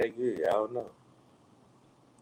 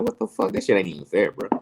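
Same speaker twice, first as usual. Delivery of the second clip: imagined indignant protest; 4 dB louder than usual. Retold or imitated. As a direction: protest like an aggrieved parent. Imagined protest at daughter's game.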